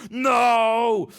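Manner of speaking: long, high, loud cry of dismay; goblin wail. Acted. Trapped goblin told he's stuck forever, loud high wail. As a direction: bellow it high and drawn out. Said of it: "said the goblin".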